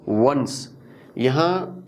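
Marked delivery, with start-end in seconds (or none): 0.1-0.7 वंस with a rounded W; rounded lips. Shown as a demonstration. Teacher modelling W for learners, rounded वंस. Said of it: "rounded lips के साथ pronounce करना है".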